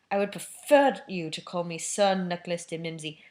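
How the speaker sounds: stiff. Acted. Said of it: "the ghost began stiffly".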